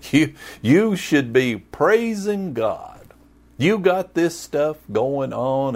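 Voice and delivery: oblivious pep talk, hamming up his own worth; clueless husband Elkanah. Retold or imitated. Pastor voicing Elkanah telling Hannah to be grateful, mock clueless husband. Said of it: "I'm being Elkanah".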